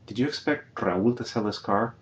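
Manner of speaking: "Did" given the weight, not "do"; stress on did. Shown as a demonstration. Teacher translating, stressing "Did" in the question. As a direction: lean on "Did" at the start of the question. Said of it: "Not do you, but did you?".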